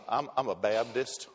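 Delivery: mock Southern US drawl, lightly done; a preacher's hammed-up Southern churchgoer accent; bad Southern accent. Pastor mimicking a Southern churchgoer, in a bad Southern accent. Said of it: "my bad Southern accent".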